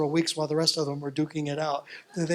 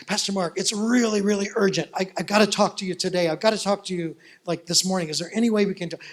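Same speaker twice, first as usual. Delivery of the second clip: urgent plea; 3 semitones higher, 4 dB louder than usual. Retold or imitated. Tina phoning her pastor, urgently asking to meet. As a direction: plead to meet this morning.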